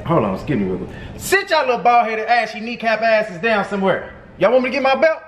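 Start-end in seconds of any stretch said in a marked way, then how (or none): 1.2-5.2 put-on higher, sharper scolding of the kids; a parent yelling across the room; threatening the belt, raised voice. Shouting at kids mid-call.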